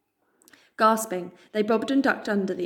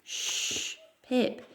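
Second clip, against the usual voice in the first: a breathy hush, then her name gently; calm her down with a soft shush; 4 semitones higher, 5 dB quieter than usual. Acted. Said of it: "he said softly".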